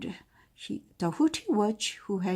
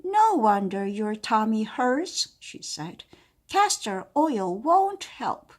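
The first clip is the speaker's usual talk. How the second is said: kindly witch; 3 semitones higher, 4 dB louder than usual. Acted. Witch explains.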